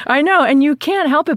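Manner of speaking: high laughing agreement. Real, not acted.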